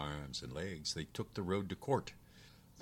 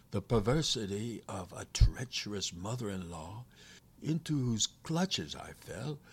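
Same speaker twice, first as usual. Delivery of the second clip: captive demon; 4 semitones higher than usual. Acted. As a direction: plead your case grandly as an imprisoned demon.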